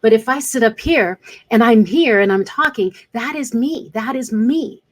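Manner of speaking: upbeat, forward presence, voice lifted; energized demo. Shown as a demonstration. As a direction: project full energy through the screen. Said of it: "That is my real brand".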